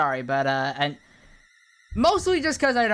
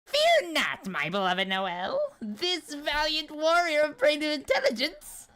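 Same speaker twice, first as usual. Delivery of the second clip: pompous nerdy knight; 4 semitones higher than usual. Acted. Berdly boasts to Noelle.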